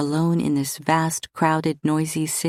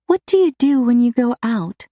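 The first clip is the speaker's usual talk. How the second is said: deliberately casual; 8 semitones higher, 5 dB louder than usual. A narrator's reading. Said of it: "in a deliberately casual voice".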